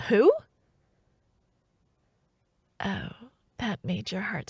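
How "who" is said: confused mother. Retold or imitated. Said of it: "looked at me with complete confusion and said".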